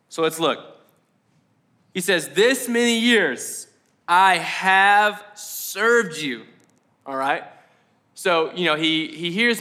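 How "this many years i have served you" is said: slow, drawn-out words, weighty protest; deliberate, stretched-out complaint in quotation; emphatic older brother. Acted. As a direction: stretch each word to press the point. Quoting the resentful older brother.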